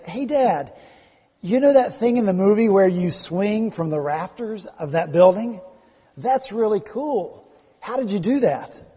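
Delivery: put-on six-year-old son. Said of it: "His son came and said".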